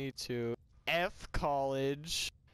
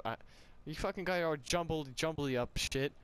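normal talking voice

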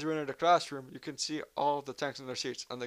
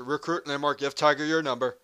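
sergeant yell; 2 semitones higher, 6 dB louder than usual. Acted. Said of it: "Is there anything he doesn't scream about?".

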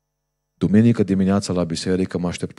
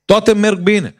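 smug boast; 9 semitones higher, 8 dB louder than usual. Retold or imitated. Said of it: "omul ăsta m-a spus".

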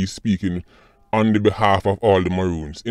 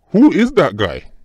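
high, drawn-out incredulous question; baffled disbelief; 7 semitones higher than usual. Retold or imitated. Vlogger retells hearing the governor's voice, baffled. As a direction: act out your bewilderment, pitched up and slow.

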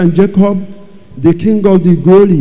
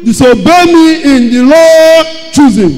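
voice of God; 8 semitones higher, 5 dB louder than usual. Retold or imitated. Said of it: "I said".

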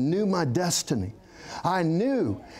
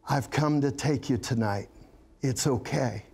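sweet tender voice; 4 semitones lower than usual. Retold or imitated. A voice comes to the dying man, sweet and tender. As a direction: soothe him like someone come to take him home. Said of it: "in this sweet, tender voice".

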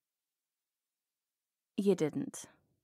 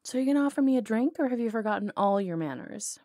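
loud, fast, higher challenge; brash demand; 3 semitones higher, 5 dB louder than usual. Acted. Outlaw cockily demanding a drink from her old flame. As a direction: push them, cocky and loud.

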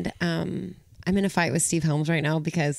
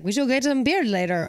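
bad Canadian accent; 4 semitones higher than usual. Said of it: "that was the worst Canadian accent".

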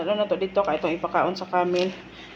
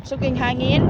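raised, louder exclamation; exclaiming at the wind; 4 semitones higher, 6 dB louder than usual. Pretend. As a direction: call it out over the wind. Exclaiming about strong wind.

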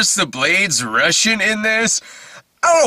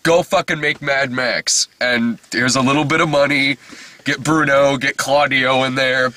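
studio boss; 2 semitones lower than usual. Retold or imitated. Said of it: "the person at the studio would be like".

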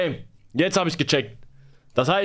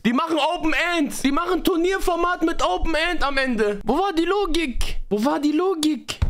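exasperated; 4 semitones higher than usual. Real, not acted. Streamer complaining about format.

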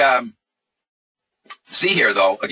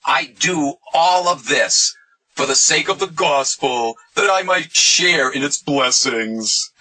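higher, slow, drawn-out quoting voice; lightly mock a pious speaker, drawing words out; mock Paul quote; 4 semitones higher, much slower than usual. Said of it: "Paul ended off by saying".

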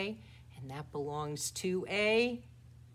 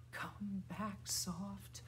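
hushed little call; soft; 8 dB quieter, much slower than usual. Shown as a demonstration. Teacher calling the bird named Soft back, softly.

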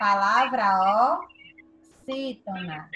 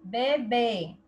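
"Bebê" with the second syllable held; stress on last syllable. Shown as a demonstration. Teacher reviewing examples for pupils, final stress on "Bebê". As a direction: lean gently on the final "bê" of "Bebê". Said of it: "o segundo B".

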